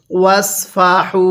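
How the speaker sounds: ওয়াসফাহু with a heavy emphatic sad, not sin; thick সদ in ওয়াসফাহু. Shown as a demonstration. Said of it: "সদকে সদের মতোই উচ্চারণ করতে হবে".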